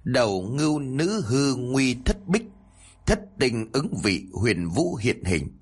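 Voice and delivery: slow, measured recital of a spell; incantation. A narrator's reading. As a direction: intone it slowly as a magic formula. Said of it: "chú ngữ Bắc Minh truyền thụ".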